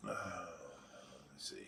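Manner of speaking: very soft, slow, nearly whispered; absent murmur. Real, not acted. Host searching the chat, murmuring to himself. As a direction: murmur it to yourself while searching. Mumbles to self while reading chat.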